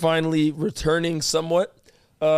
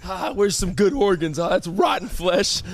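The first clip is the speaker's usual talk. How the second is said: voicing the virus searching. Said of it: "Your shit was in there like".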